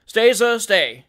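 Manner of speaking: loud, courteous interruption; emphatic, civil halt; great politeness. A narrator's reading. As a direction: cut in with elaborate politeness. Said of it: "with great politeness".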